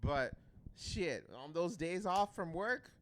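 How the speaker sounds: normal talking voice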